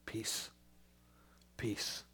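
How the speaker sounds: hushed, gentle greeting; soft peace. Acted. Jesus greeting his frightened disciples, hushed. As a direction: breathe the word out softly.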